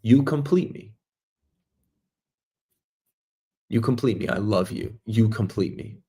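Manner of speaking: soft, low declaration of love; sincere declaration of love. Shown as a demonstration. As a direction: say it gently, like you mean it. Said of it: "that's how you would say it".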